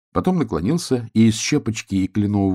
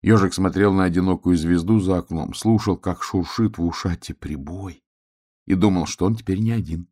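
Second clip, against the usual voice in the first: gentle story narration. A narrator's reading. Narrator tucks hedgehog in by his sea, gentle narration. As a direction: let the tale settle, slowing and softening to the end. Narrator closes the bedtime tale.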